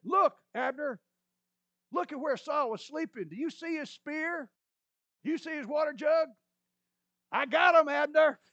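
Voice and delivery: loud, high, gleeful taunting shout; hollering. Acted. David showing off Saul's spear, gleeful hollering. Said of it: "David hollered a little bit more".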